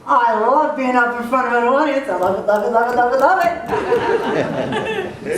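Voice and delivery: giddy, laughing love it; gleeful inner voice. Retold or imitated. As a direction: revel in it with a laugh. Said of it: "another voice that says".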